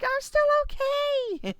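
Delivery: high, loud, comic call; calling back. Acted. Flattened teammate reassuring player, high comic call. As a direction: holler back in a high mock-distant voice.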